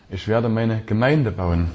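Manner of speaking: slow line peaking on „Gemeinde“; stress on GEMEINDE. Shown as a demonstration. Preacher to church, weight on Gemeinde. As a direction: lean into „Gemeinde“. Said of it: "Wenn man die Betonung verschiebt".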